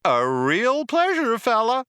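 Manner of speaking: high, loud gushing computer; burbling computer. A narrator's reading. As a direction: burble it out like a chirpy machine. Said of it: "it burbled".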